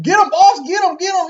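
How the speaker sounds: high, loud cartoonish egging on; mock goofy sidekick. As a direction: yelp it like a silly lackey. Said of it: "you got Loomis saying".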